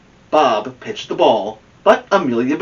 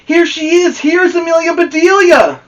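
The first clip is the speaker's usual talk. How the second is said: high, loud cheering shout; calling out; 8 dB louder than usual. Acted. The Grizzlies greet Amelia Bedelia at the ballpark, shouting high and loud. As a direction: welcome her from across the field. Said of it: "called the Grizzlies".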